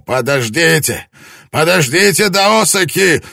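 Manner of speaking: calling after the fleeing lord, loud and high; desperate calling out. A narrator's reading. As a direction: call after him as he runs.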